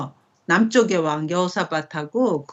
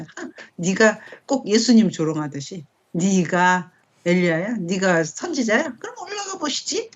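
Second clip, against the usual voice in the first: mocking taunt. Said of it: "막 이렇게 놀린 거라는 거야". (천천히 비꼬다가 끝을 아주 높게 놀리듯)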